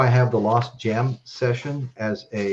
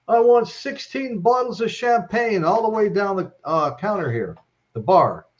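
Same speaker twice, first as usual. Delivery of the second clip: tipsy drummer order; 8 semitones higher than usual. Retold or imitated.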